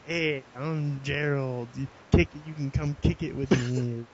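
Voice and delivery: lightly voiced, slow cool-guy act; a hint of a laid-back wannabe cool kid; cool nineties kid. Friend acting out the made-up sitcom character Gerald, trying to act cool. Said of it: "tries to act like he's".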